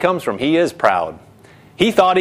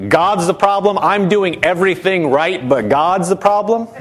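lightly mocking, lifting into a question; mock incredulous; 3 semitones higher than usual. Preacher showing how foolish blaming God sounds, mock incredulous. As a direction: echo the complaint as if it were foolish. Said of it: "You know how foolish that sounds?".

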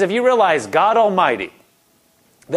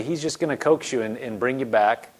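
soft, lower, coaxing voice; gently; 3 semitones lower, 5 dB quieter than usual. Shown as a demonstration. Pastor describing God coaxing, soft and gentle. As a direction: ease the listener back gently.

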